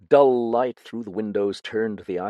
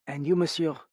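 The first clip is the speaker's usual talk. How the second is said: a lightly voiced tired hostess, a touch higher; weary older woman; 8 semitones higher than usual. A narrator's reading. Lightly voiced widow greeting her visitors. Madame Duchesne speaks.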